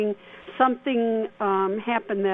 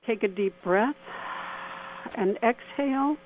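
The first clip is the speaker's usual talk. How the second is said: guided meditation. Acted. Leads a mini meditation.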